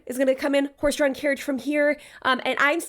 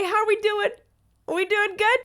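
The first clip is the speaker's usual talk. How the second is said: bright chipper radio voice; 9 semitones higher than usual. Retold or imitated. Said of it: "I radio the carriage".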